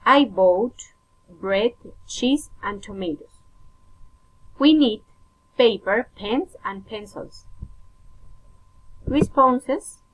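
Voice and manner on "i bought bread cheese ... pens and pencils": careful teacher's model of a list; enumerating intonation. Shown as a demonstration. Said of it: "rising intonation".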